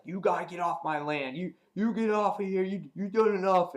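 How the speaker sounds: high-pitched, sputtering imitation of an angry old man; hammed-up indignant landowner, rising in volume; Herschel, mock angry. Old man ordering the group off his land, mock angry. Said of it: "they're having an argument".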